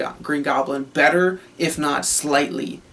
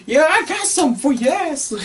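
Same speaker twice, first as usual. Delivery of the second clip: higher, snide villain comeback; Green Goblin; 10 semitones higher than usual. Retold or imitated. Goblin answering the crowd, higher snide threat. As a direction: toss it back with a sneer. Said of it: "And he's like".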